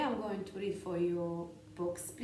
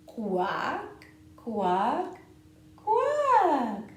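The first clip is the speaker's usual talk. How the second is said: duck quacking; 6 semitones higher, 12 dB louder, much slower than usual. Pretend. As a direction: quack like a playful duckling. Duck refrain.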